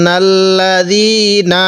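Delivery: নাল্লাযীনা slow, with a soft zal, not a jim; soft zal recitation. Shown as a demonstration. Teacher showing students a soft zal, slow recitation. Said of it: "আমরা জালটা একটু নরম করে পড়ব".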